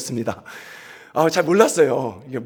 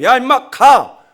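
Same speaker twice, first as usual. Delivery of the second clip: angry threat; 8 semitones higher, 8 dB louder than usual. Retold or imitated. Seoul drivers threatening the Gangwon driver, loud and angry. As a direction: shove him off your turf. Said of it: "라고 이렇게 욕을 먹으면서".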